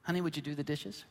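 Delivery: lightly imitated sweet wife; mock-sweet request with a rising end. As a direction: ask sweetly, quick and light. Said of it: "she'd do it very sweetly".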